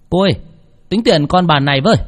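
put-on drunk slurred voice; tipsy and slurring the words. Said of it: "Giọng của lè nhè thằng Tâm".

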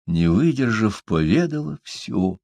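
ordinary delivery

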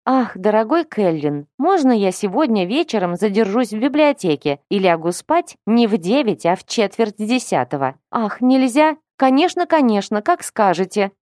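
thin lisping mock-childish voice; cutesy baby talk. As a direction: simper like a coddled little girl. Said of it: "тонким голоском засюсюкала Вилма".

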